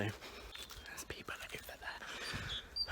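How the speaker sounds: hushed whisper so others won't hear. Real, not acted. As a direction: drop to a whisper near people. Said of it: "I don't think they'll be able to hear me".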